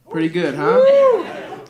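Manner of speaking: high, slow proud squeal. Real, not acted. Comic shows off his shirt to the crowd with a high brag.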